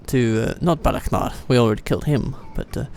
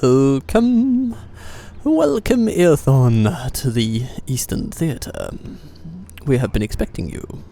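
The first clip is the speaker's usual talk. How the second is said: grand lord's welcome; slower than usual. Pretend. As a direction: welcome them like a pompous king. Greets his own unit grandly.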